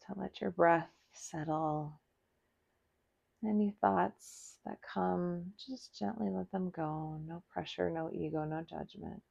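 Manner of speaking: soft, soothing yoga-teacher voice; guided meditation. Acted. Guides letting thoughts go.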